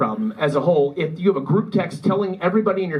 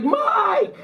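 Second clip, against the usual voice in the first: very high, drawn-out name call; high-pitched mock reproach; mock scolding cry. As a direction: imitate a scandalized widow calling out. Widow scolds him at funeral.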